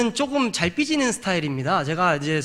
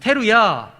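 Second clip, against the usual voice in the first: raised call of a Hebrew word; demonstrated shout; 4 semitones higher, 5 dB louder, much slower than usual. Shown as a demonstration. Preacher has the congregation try the word, demonstrated shout. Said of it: "테루야 한번 해보겠습니다".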